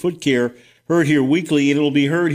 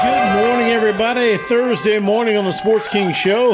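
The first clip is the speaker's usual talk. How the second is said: excited; 9 semitones higher than usual. Real, not acted. Radio host opening greeting.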